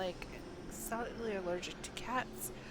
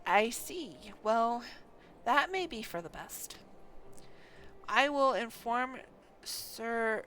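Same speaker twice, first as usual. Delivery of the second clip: louder, grave commander reading his report; stern lord voice; 6 dB louder than usual. Acted. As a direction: speak as a lord explaining a grim situation. Game NPC dialogue read aloud.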